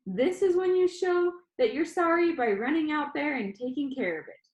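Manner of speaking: high, firm, lecturing order; stern grandma. Acted. Grandma ordering the boy to walk the dog, stern. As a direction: lay down the rule.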